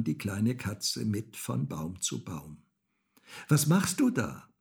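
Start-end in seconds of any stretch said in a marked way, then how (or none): 3.5-4.5 put-on high, loud child's question; calling up. A narrator's reading. Häwelmann to the cat in the tree, calling up. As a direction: call up into the treetop. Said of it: "rief der kleine Häwelmann hinauf".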